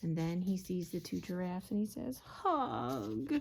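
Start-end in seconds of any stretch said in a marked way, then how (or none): 2.2-3.3 high, stretched-out call; long, high storybook call. A narrator's reading. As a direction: call out across to the animals. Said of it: "He's calling out".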